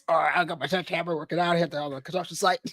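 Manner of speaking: lightly put-on construction worker; joking workman voice with a laugh in it; mock sledgehammer voice. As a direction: play a hammer-toting workman, half-laughing. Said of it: "is that your sledgehammer voice".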